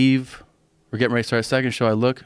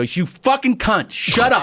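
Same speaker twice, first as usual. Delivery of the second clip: retold angry shout, pitched way up; furious outburst; 13 semitones higher, 3 dB louder than usual. Comic snapping at a heckler during the first joke, retold furious shout. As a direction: blow up at a heckler, drawn out and high.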